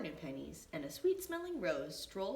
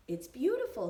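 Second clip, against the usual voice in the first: delighted mom; 6 semitones higher, 9 dB louder than usual. A narrator's reading. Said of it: "said his mom".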